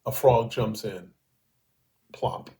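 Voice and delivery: quoting a translated haiku, measured; poem reading. Acted. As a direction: read the haiku slowly, pausing between lines. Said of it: "Allen's first, his translation".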